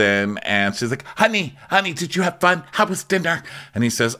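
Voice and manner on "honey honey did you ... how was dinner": high sugary coo; mock sweet wife. Imitating Heather fussing over Terry. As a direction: coo sweetly at your husband.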